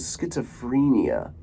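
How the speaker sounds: schizophrenia with a long ee, skit-so-FREE-nia; schizophrenia pronounced with FREE in the middle; mocked pronunciation. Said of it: "I think they're pricks 'cause I'm like".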